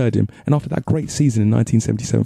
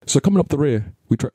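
put-on terrible Irish accent, a little higher; Irish accent attempt; 3 semitones higher than usual. Vlogger retrying the script's introduction, badly faked Irish accent. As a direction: have another feeble go at an Irish accent. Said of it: "really sorry attempt at an Irish accent".

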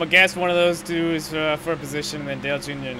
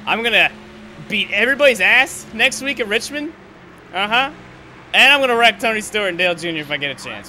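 angry boast; 5 semitones higher, 4 dB louder than usual. Real, not acted. Vowing revenge on rivals.

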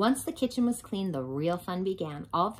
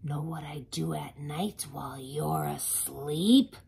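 loud, booming truck character; garbage truck voice; 8 dB louder, slower than usual. Acted. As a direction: boom it like a hungry truck. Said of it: "garbage truck voice".

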